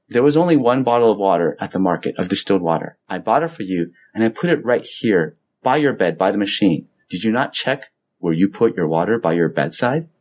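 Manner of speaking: low, calm explanation. Retold or imitated. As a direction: imitate a wife calmly setting things straight. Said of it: "very calmly says".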